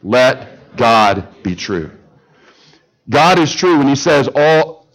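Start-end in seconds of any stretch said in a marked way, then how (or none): 0.0-1.9 slow, lower, every word weighted; preacher leading the church in a slow, solemn refrain; slow unison declaration. Shown as a demonstration. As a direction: lead the congregation through it slowly. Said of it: "Say it with me".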